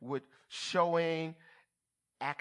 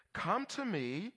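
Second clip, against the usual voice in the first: Jesus; 4 semitones higher, slower than usual. Acted. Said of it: "what Jesus is saying".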